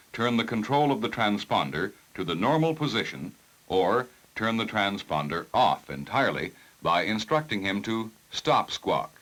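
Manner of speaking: ordinary talk, nothing marked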